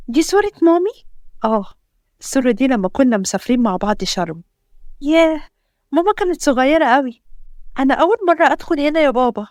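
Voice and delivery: a hint of an eager small girl; child's voice. Narrator voices little daughter.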